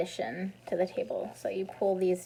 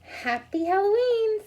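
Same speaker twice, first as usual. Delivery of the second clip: excited greeting; 11 semitones higher, 6 dB louder than usual. Acted. Amelia Bedelia reveals herself.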